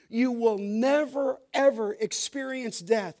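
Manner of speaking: NEVER stretched and stressed, then EVER stressed; emphatic never ever. Shown as a demonstration. Preacher restating the promise to listeners, emphatic stress. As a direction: lean on "never, ever" before finishing the promise. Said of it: "It's emphatic, we call it".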